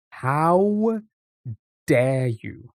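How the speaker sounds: hammed-up affronted protest; mock offence. Streamer teased as Brummie by chat, mock offence.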